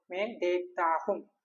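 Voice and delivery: മേ ദേഖ്താ ഹും said slowly, each syllable drawn out; slow model phrase. Shown as a demonstration. Teacher modelling the Hindi for I see, slow and deliberate. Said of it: "okay, ഞാൻ കാണുന്നു".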